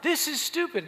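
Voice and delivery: loud, high imitated yell; mock shout. Steve yelling back in the argument, loud mock shout.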